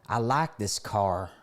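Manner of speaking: put-on slow country-accented passenger. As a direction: say it slowly with a country twang. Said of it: "so country accent too, so I'll have to whip that in".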